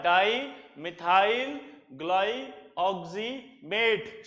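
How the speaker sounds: each syllable of डाईमिथाइल ग्लाइऑक्सीमेट drawn out very slowly; slow teacher dictation of the name; slow drill repeat. Shown as a demonstration. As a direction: spell out डाईमिथाइल ग्लाइऑक्सीमेट slowly so students can copy it. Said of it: "क्या बोला, जल्दी बताओ".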